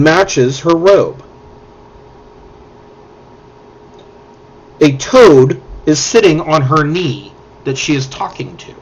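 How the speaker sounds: measured scene-setting read; game master narration. A narrator's reading. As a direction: paint the cave for the players.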